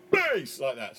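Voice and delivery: "bass" burst out through wrapped lips; explosive high bass. Shown as a demonstration. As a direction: pop the word "bass" out with lips pursed. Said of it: "explode it out while saying it very, very high".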